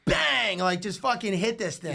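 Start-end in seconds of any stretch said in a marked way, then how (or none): 0.1-0.6 shouting. Retold or imitated. Hitting the gong.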